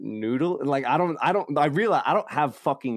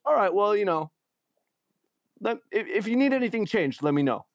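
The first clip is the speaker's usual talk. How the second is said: imitating clerk, higher; 9 semitones higher than usual. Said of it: "He goes".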